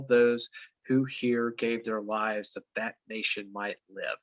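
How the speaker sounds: measured, solemn recital of a famous speech; formal speech reading. Acted. Teacher reading Lincoln's address aloud to students, solemn. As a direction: read it as a dignified address. Reads Gettysburg Address to class.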